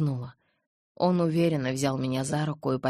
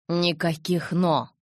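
sudden anger; 3 dB louder, slower than usual. Acted. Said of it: "с внезапной злобой ответил Эдвард".

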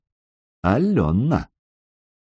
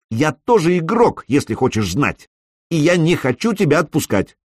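higher and firmer, insistent; regaining strength; 7 semitones higher than usual. A narrator's reading. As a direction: plant her feet and push back. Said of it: "Голос Алёны снова набрал силу".

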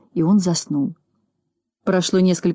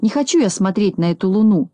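mildly grumbled refusal; understated acted grumble; grumbling. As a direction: refuse with a touch of sulkiness. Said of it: "проворчал он".

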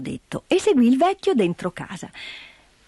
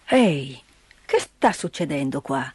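put-on lower, grumbling old man's exclamation; gruff old man; 7 semitones lower than usual. Old man confronts the visitors, low gruff voice. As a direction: bark it out like a surly old hermit. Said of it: "esclamò il vecchio".

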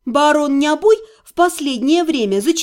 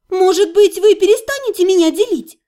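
louder, higher exasperated outburst; angry; 5 semitones higher, 4 dB louder than usual. A narrator's reading. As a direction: snap at them, fed up. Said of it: "разозлилась я".

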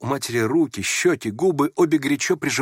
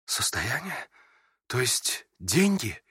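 удивление; 6 dB quieter, slower than usual. A narrator's reading. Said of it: "удивился князь".

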